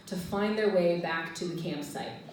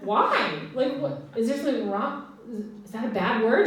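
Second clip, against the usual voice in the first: a touch of confused innocence; puzzled, asking what's wrong; mild innocent surprise; 3 semitones higher than usual. Retold or imitated. Teacher confused by colleague's warning, innocent. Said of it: "And I said".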